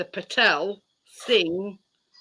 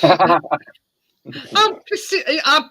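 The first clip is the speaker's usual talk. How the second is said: laughing; 4 semitones higher, 4 dB louder, much slower than usual. Real, not acted. Laughing hard at the story.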